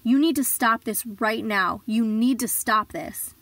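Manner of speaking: put-on slow, stern warning from an older woman. Coworker warning her to leave him, stern and slow. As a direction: lay down the law, slowly and firmly. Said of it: "She looked at me very sternly".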